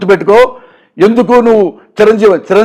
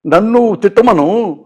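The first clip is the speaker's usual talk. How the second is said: softer, hurt and pleading, a touch of tears; a mild, softer imitation of Chiranjeevi crying on the phone; imitating tearful plea; 4 dB quieter than usual. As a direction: quietly retell a friend's tearful complaint. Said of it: "కన్నీళ్ళు పెట్టుకుని మాట్లాడుతుంటే".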